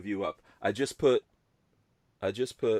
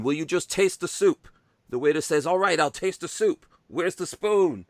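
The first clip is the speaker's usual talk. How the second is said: put-on higher, louder Jewish accent joke; 6 semitones higher, 5 dB louder than usual. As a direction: tell the punchline in a hammed-up Jewish accent. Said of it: "do this in the Jewish accent".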